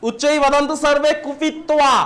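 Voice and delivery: slow, deliberate chant of কুপিত্বা as kupittoba; teacher modelling কুপিত্বা syllable by syllable; careful pronunciation drill. Shown as a demonstration. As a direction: spell out কুপিত্বা slowly for the class. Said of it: "উচ্চারণ ভুল করবে না".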